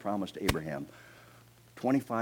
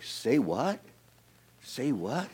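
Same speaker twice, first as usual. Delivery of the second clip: playful incredulous "say what?"; mock disbelief; 5 semitones higher, much slower than usual. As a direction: pitch swooping up in a puzzled question. Abraham's mock disbelief, audience prompted.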